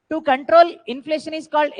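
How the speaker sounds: very slow, each word drawn out; dictating notes. Shown as a demonstration. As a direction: dictate so students can write it down. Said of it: "teacher dictates definition". (నోట్స్ dictate చేస్తున్నట్టు నెమ్మదిగా)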